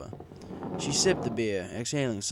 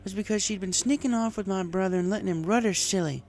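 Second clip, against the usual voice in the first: higher mare voice, a touch of groan; groaning farm mare; 11 semitones higher, 4 dB louder than usual. A narrator's reading. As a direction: grumble it out as the jilted mare. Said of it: "she groaned".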